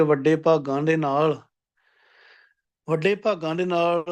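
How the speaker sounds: ਵੱਡੇ ਭਾਗਾਂ ਦੇ ਨਾਲ with a breathy gh-like ਗ in ਭਾਗਾਂ and a nasal aan; careful recitation pronunciation. Shown as a demonstration. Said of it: "ਗੱਗੇ ਬਿਹਾਰੀ ਤੇ ਨਾਸਕੀ ਉਚਾਰਨ ਕਰਾਂਗੇ".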